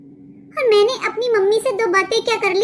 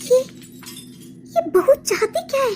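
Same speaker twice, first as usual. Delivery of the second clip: outraged shout; 5 semitones higher than usual. Acted. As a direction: throw your hands up and yell at the sky in disbelief. Mother-in-law outraged at the bahu.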